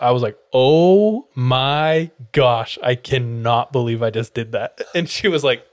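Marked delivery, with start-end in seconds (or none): 0.5-4.8 embarrassed. Retold or imitated. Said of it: "I said this out".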